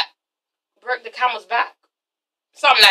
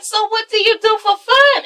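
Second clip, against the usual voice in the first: higher, bright-eyed questioning Phaedra; 9 semitones higher than usual. Retold or imitated. Vlogger voicing Phaedra asking Kim, pitched up. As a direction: ask it like a curious hostess. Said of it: "And Phaedra's like".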